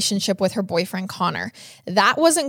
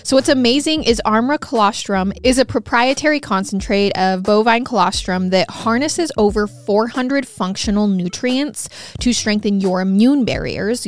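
upbeat sponsor read over music. Acted. Host reads sponsor ad to listeners, bright promo voice. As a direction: sell the product brightly to listeners.

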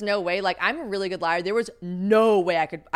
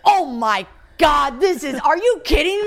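mock disbelief; 7 semitones higher, 5 dB louder, slower than usual. His shocked reaction, retold.

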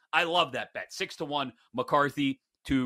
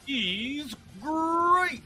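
slow, much higher put-on owner voice; mock owner voice; 11 semitones higher, much slower than usual. Mocking the Raiders owner's praise, slow and high. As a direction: stretch it out in his voice.

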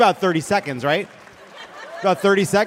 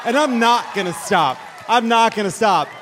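defiant shout; 3 semitones higher than usual. Acted. Defiant repeated declaration.

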